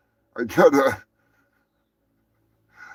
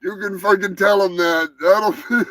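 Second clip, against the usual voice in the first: Sly Stallone impression; 5 semitones higher than usual. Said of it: "I will send you an audio message".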